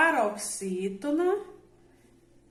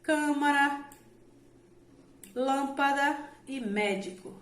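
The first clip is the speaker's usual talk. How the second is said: "Câmara, lâmpada e médico", leaning on CÂ, LÂM and MÉ; stress on antepenultimate syllables; 4 semitones higher than usual. Shown as a demonstration. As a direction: present "Câmara", "lâmpada", "médico" one by one, first syllable strong. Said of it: "a sílaba tônica recai sobre a antepenúltima". (tonicidade na antepenúltima sílaba)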